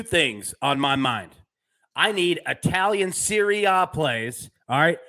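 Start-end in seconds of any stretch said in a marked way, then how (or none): 2.0-5.0 hammed-up Italian accent, higher in pitch. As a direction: put on a playful Italian accent, drawn out and lifted. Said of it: "gave it an Italian accent".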